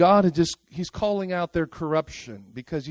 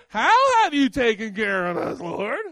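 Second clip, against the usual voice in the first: nervy retort. Retold or imitated. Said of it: "have the nerve to say".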